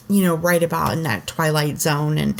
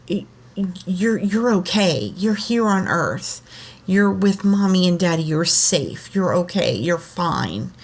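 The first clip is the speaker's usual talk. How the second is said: reassuring. Retold or imitated. Mother reassures her tearful son at bedtime, calmly soothing. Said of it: "I just reassured him".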